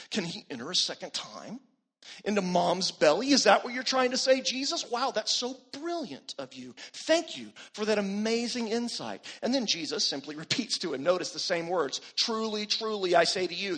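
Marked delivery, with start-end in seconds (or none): 0.1-9.2 sarcastic. Retold or imitated. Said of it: "this is probably sarcastic". 12.2-13.8 solemn, emphatic Truly, truly; with emphasis. Shown as a demonstration. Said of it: "that's said with emphasis".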